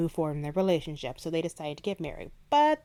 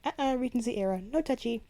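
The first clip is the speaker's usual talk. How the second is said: higher teasing sisters' tut-tut; mock scolding; 6 semitones higher than usual. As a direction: wag a finger in fun. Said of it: "they're like".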